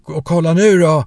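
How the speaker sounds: loud, high shout to look; yelled command. Retold or imitated. Jonas shouts at the crowd to watch, loud yell. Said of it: "skrek han".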